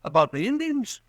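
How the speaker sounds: anxious, pitched high with news of the attack; urgent, frightened warning; nervous shopkeeper spreading alarm. Acted. Green warns of Indian attack.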